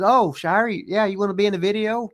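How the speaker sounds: high, loud hillbilly greeting; dorky rock-singer voice. Retold or imitated. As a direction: call out like a goofy small-town star. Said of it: "when you talk like him".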